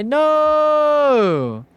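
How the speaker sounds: sudden high yelp of no; mock shout. Streamer yelping at chat in mock outrage. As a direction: squeal it out, playfully outraged.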